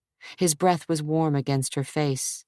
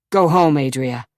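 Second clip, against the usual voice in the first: harsh command; 6 dB louder than usual. Acted. Harsh dismissal.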